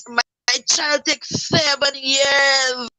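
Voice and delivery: slow, breaking cry of real grief; grieving mother crying out the anniversary. Real, not acted. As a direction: let the tears break through slowly. Grieving mother recalls child's death.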